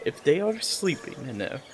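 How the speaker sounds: softly voiced secret planning; hushed whispering. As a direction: ask it under your breath. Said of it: "whispering this".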